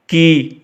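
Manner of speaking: की with a long, held ee; long vowel. Shown as a demonstration. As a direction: draw out the vowel in की. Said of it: "आवाज़ को आपने लंबा करना है". (की में ई को लंबा करके)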